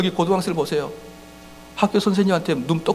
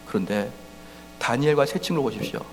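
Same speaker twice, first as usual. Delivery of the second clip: normal talking voice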